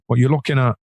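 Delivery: lightly put-on confrontational Manc accent; Mancunian attitude. Shown as a demonstration. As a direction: demo a mock-challenging Manchester accent. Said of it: "a mank is quite kinda".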